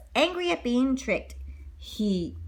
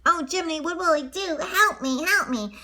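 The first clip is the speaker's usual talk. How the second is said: frightened plea; 6 semitones higher than usual. Acted. Pinocchio panicking.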